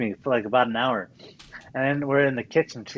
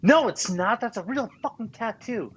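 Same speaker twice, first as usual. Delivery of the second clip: higher, louder mock outrage at the tattoo; imitating wife; 8 semitones higher, 3 dB louder than usual. Wife discovering the real tattoo, imitated higher. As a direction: play the wife catching him, voice jumping up. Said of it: "She's like".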